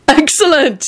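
high, delighted cry; a gleeful little whoop; happy yell. A narrator's reading. Neville thrilled by the exploding Snape card, gleeful high cry. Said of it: "he yelled happily".

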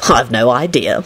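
low, easygoing reply; relaxed and amiable, unbothered. A narrator's reading. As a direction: answer mildly in a low voice. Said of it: "Lupin replied amiably".

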